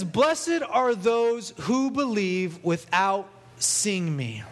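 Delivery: very slow, drawn-out preached verse; preaching. Acted. Preacher preaching the verse to the church, very slow. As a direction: stretch every word of the verse. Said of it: "I'm just gonna preach it here tonight".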